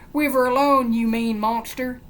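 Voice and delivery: high, loud plea; mock outraged yell. Joke character fending off a mean monster, high outraged yell. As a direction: yell it like a pestered victim. Acted protest in joke punchline.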